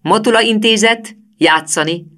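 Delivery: high, loud classroom command; math-class voice. A narrator's reading. Teacher ordering the whole school to play, in a math-class command voice. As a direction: call it like starting a math lesson. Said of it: "számtanórai hangon".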